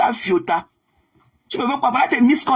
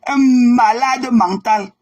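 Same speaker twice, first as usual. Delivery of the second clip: scornful insult; 5 dB louder, much slower than usual. Real, not acted. Insulting a rival, drawn out.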